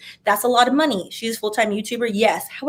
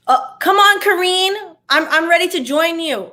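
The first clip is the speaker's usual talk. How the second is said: excited cheer; 7 semitones higher, 4 dB louder than usual. Real, not acted. Cheering a commenter in chat.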